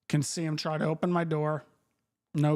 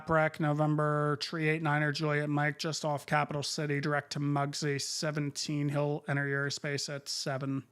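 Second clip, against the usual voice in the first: crisp controller radio call; air traffic control radio. Acted. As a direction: read clearances like a busy controller. Handoff call to other sector.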